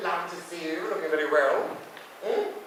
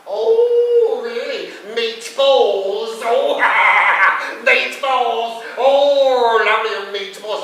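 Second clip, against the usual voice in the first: loud, higher, delighted cooing over meatballs; gushing; 5 semitones higher, 10 dB louder, much slower than usual. Acted. Innuendo at the waiter's meatballs, loud and gushing. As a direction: gush like it's the best news ever.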